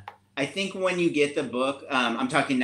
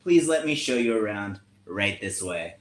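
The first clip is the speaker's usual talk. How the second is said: gracious cat counselor. Acted.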